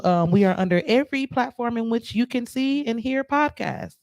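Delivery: lightly voiced TV evangelist, rising as it goes. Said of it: "put on my evangelist slash T V voice".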